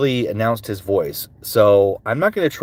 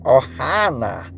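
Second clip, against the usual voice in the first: Stitch; much slower than usual. Acted.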